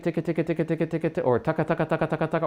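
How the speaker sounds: quiet repeated ticket then taka; tonguing syllables; ticket and taka drill. Shown as a demonstration. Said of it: "So ticket".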